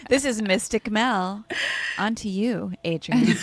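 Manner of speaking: playful mock croaky host voice; the host with a frog in her throat. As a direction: ham up a croaky show-host hello. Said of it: "Melinda and her frog in her throat".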